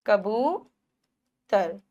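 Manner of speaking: कबूतर very slow with the बू held long; long stretched oo. Shown as a demonstration. Teacher stretching कबूतर for the long ऊ. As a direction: drag out the बू in कबूतर. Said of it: "बड़े ऊ की मात्रा".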